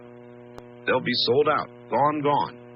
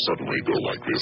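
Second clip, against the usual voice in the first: voice changer; faster than usual. Shown as a demonstration. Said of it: "my very famous voice changer".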